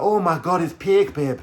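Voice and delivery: high, loud imitation of her Irish accent; mock Irish girlfriend. Irish girlfriend using his slang, in a high mock Irish accent. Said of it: "She'd be like".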